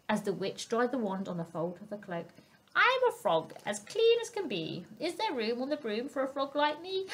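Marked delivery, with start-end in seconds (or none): 2.8-7.1 higher frog voice, lightly croaked; a frog asking to join; croaky frog. Acted. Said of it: "then said with a croak".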